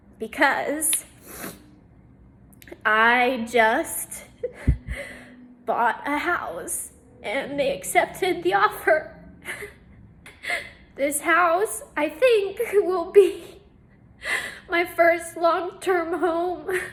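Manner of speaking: snotty, joyful sobbing speech. Speaker addresses viewers after good news, crying happy tears. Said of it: "I'm crying. They're good tears. I'm very snotty".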